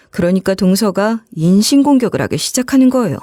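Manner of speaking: ordinary delivery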